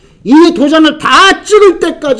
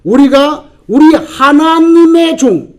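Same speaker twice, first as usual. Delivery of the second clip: slow, drawn-out mild proclamation; proclaimed angel's cry; 3 semitones higher, 3 dB louder, much slower than usual. Retold or imitated. Angel calling to the four angels, mild retold cry. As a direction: retell the angel's call, stretching it out. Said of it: "소리를 지릅니다".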